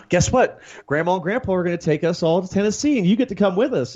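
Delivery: mock excited tease; excited announcing. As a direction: sell the surprise to a little brother. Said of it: "I decided to let my brother know".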